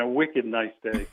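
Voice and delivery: a light Boston accent, slow and easy; slow, playful Boston accent. Shown as a demonstration. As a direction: lean lightly into the Boston accent on a wicked nice day. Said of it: "with my, uh, Boston accent".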